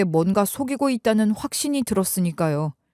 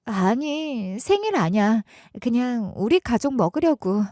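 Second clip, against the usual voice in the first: wife trailing off evasively; 3 semitones higher than usual. Retold or imitated. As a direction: dodge the question, letting each line die away. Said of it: "말끝을 흐리더군요".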